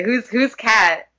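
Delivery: drawn out, mock confused; dragging mock bewilderment; slow puzzled echo. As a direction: stretch the question out slowly. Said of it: "Who, exactly".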